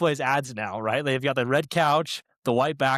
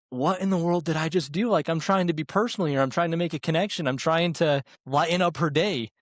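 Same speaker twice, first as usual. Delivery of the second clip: lightly raised, baffled inner voice; baffled self quote; 4 semitones higher than usual. Retold or imitated. Drive-thru worker wondering why the customer cried, mildly baffled. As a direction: replay your own bewildered thoughts, a touch higher. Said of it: "And I'm like".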